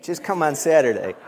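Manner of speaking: loud laughing invitation to Saturday; laughing invite. Real, not acted. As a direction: laugh it out as a friendly nudge.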